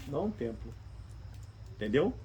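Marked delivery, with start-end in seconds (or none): 0.1-0.7 "Não o templo" repeated softly and low; quiet echo. Shown as a demonstration. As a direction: let "Não o templo" fall away to near silence. (repetição baixinha de "Não o templo")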